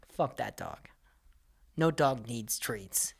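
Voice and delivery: unvoiced, slow whisper; hushed slow aside. Real, not acted. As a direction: whisper it like a secret verdict. Aside after mock guest.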